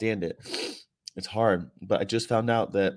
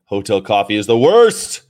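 loud complaint; 12 dB louder than usual. Real, not acted.

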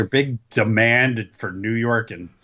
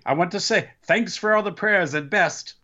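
imitating a read-out statement; 8 semitones higher than usual. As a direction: lightly mimic reading a tweet aloud. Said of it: "And he read it".

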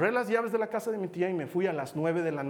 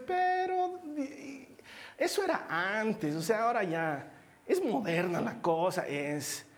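mock excuse-making; slower than usual. Believer excusing himself from God's command, mock wheedling. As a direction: imitate someone wheedling round a rule.

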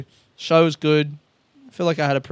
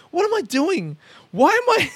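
panicked self-question; 13 semitones higher than usual. Retold or imitated. Panicked self-talk retold.

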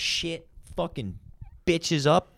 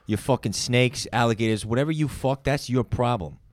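firm, lightly acted enforcer; understated tough-guy collector; mob debt collector. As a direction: lean on a debtor, mock threatening. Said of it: "you're confronting somebody who owes you money".

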